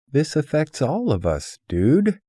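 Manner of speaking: pitched high and loud, hollering at him; shouting in protest. Retold or imitated. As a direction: yell it across the coffee house. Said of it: "freedom to holler".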